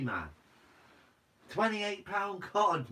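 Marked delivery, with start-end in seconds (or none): 1.5-2.9 slow, higher, louder astonished read; amazed. Real, not acted. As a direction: stretch it out in disbelief. Repeats catch weight in awe.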